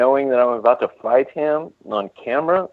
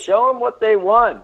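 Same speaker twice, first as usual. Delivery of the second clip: game show host; 8 semitones higher than usual. Pretend. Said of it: "came with the game show host, uh, voice there".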